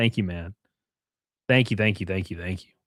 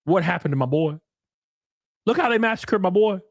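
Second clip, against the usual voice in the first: lightly raised, dismayed friend voice; mock dismay; 6 semitones higher than usual. Mourning a friend changed by a girlfriend, hammed-up dismay. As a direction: play up the betrayal of a lost buddy. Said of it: "And you're like".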